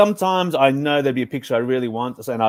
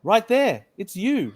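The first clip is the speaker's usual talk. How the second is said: scream; 9 semitones higher, slower than usual. Acted. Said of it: "screamed Walter".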